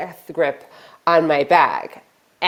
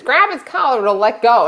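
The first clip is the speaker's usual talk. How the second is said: put-on old man calling; 5 semitones higher, faster than usual.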